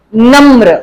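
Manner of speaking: "नम्र" with र right along with the म; र joined to म. Shown as a demonstration. Teacher models padena र for students, र joined to म. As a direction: say "नम्र", blending म and र. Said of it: "म के साथ ही र की sound".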